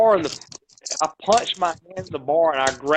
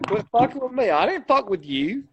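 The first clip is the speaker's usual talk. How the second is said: much higher, heated warning; raised-pitch angry pushback; re-enacted warning; 8 semitones higher than usual. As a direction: push the guy back with words. Re-enacting his warning to the man.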